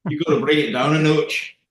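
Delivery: Scottish accent. Shown as a demonstration. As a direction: bring out the irritable Scot. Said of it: "He's down here".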